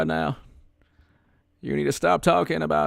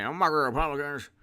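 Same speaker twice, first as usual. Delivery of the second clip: mocking an old president. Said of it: "his dumb speech the other day".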